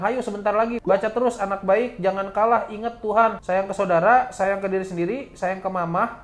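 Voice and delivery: imitated coaxing, lifted in pitch at first; encouraging urging. Helper urging narrator to keep reciting, encouraging retold voice. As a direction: urge them on phrase by phrase, retelling a helper. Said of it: "Dia bilang".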